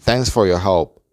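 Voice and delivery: "thanks for your help" in careful linked words; teacher models "thanks for your help" clearly; model pronunciation. Shown as a demonstration. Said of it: "la oración completa se pronuncia". (pronunciación modelo y clara de "thanks for your help")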